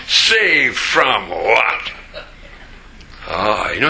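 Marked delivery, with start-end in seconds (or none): 0.1-1.9 antagonistic retort. Retold or imitated. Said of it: "and they'll say".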